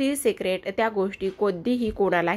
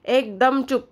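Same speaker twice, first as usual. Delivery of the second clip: stern command; 4 semitones higher than usual. Acted. Kavya silences the shouting aunt.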